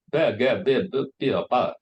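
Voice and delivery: "better" and "butter" with the t swallowed, be'er, bu'er; London Cockney glottal stop. Shown as a demonstration. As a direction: drop every t into a glottal catch. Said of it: "they swallow the T sound".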